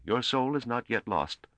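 stern priest, drawing the words out. A narrator's reading. Priest answering the begging soldiers, stern and slow. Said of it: "said Apparat sternly".

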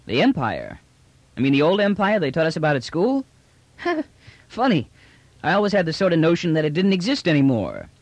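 amazed trader thinking out loud; brash trader, astonished. Acted. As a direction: marvel like a slangy trader hearing old legends.

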